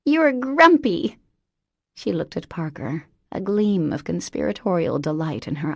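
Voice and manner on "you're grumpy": higher, slower singsong tease; gleeful tease. Acted. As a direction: lean into the tease with delight. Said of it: "she repeated".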